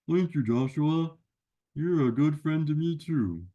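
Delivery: a cheeky friend who butts in; a hint of a goofy puppet buddy; Sammy the sidekick. Sammy answers host.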